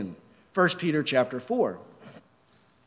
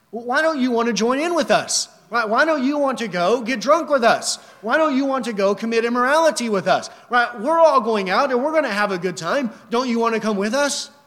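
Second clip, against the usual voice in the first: lightly voiced pushy invitation, higher pitch; ungodly friends coaxing; 5 semitones higher, 4 dB louder than usual. Ungodly friends urging a believer to join them, mildly pushy coaxing. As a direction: act out insistent peer pressure a little. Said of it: "This is what they say".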